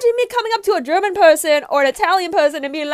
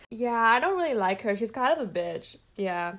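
lower, softer catty aside; low gossip; 7 semitones lower, 8 dB quieter than usual. Acted. Girlfriend badmouths an approaching friend, low and hushed. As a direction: confide your dislike under your breath. Gossip before greeting the same woman.

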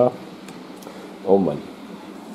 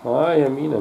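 normal talking voice

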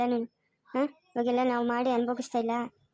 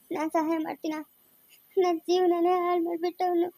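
tearful, a little higher, breaking into sobs; crying; 3 semitones higher than usual. Acted. Older sister weeping to Sinchu about losing Bablu, crying. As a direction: cry through the words over the lost boy. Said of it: "ಅಳ್ಬೇಡ, ಸುಮ್ನೆ ಇರಕ್ಕ".

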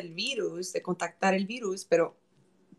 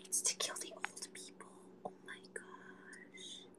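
hushed conspiratorial whisper; 21 dB quieter than usual. Acted. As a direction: whisper it like a juicy secret. Secret gossip about the virus.

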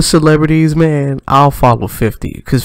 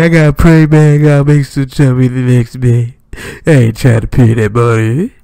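louder, pushed rapper impression, a bit strained; overdone louder rapper voice; imitating a rapper; 3 dB louder than usual. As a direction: lean hard into a rapper imitation. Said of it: "I try to do his voice a little bit hard".

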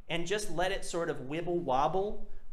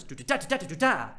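compress the "do-da" rhythm, accents popping; thirty-second-note pattern; 2 semitones higher, faster than usual. Shown as a demonstration. Teacher showing thirty-second notes, compressed pattern with popping "da". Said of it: "and then it's thirty-second notes".

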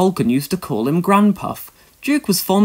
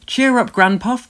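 calling out; 7 semitones higher than usual. A narrator's reading. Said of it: "called Stuart".

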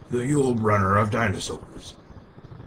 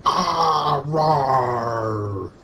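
high, loud, fast squeal rising into a roar; squealing as the change takes hold; dinosaur voice; 10 semitones higher, 8 dB louder than usual. Pretend. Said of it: "I think I'm turning into".

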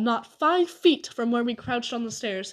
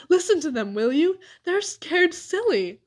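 giggling; 7 semitones higher, 5 dB louder than usual. A narrator's reading. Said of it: "giggled Dink".

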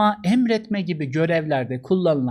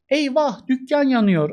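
alarmed cry; 5 semitones higher than usual. Shown as a demonstration. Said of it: "cümle dışı unsur".

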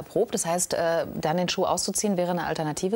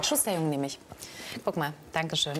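mouth full; 2 semitones lower, 5 dB quieter than usual. Real, not acted. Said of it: "außer mit vollem Mund natürlich nicht".

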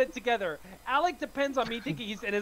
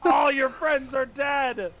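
gloating villain taunt; 4 semitones higher, 4 dB louder, slower than usual. Pretend. Killer player taunting the victims.

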